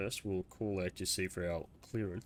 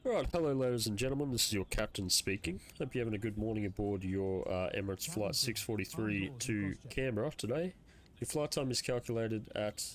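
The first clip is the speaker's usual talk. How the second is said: captain's PA announcement. Acted. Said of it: "quick cabin announcement on the P A".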